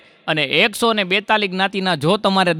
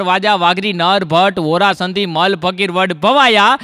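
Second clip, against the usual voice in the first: sing-song recital, punching each group's last name; rhythmic roll-call. Acted. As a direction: chant a memorised list in pairs. Rattles off memorised list of communities.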